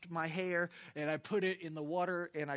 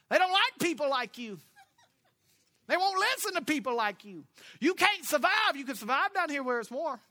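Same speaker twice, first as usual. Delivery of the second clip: lightly voiced worried relatives, raised and loud at first; relatives warning; 4 semitones higher, 5 dB louder than usual. Pastor voicing family warning him not to go north. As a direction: warn him off going north, a touch of the folks back home. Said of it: "They were telling me".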